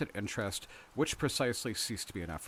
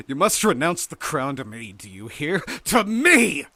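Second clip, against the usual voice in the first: loud demand exploding into a high yell; triumphant, high-pitched shouting; triumphant cry; 6 semitones higher, 12 dB louder than usual. A narrator's reading. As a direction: demand it, building to a full shout. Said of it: "I cried with a laugh".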